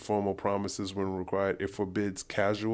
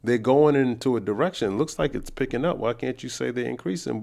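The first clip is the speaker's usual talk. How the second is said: loud, raised-pitch questioning; exasperated challenge; 5 semitones higher, 8 dB louder than usual. Real, not acted. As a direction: talk back at the screen, indignant. Argues back at woman in clip.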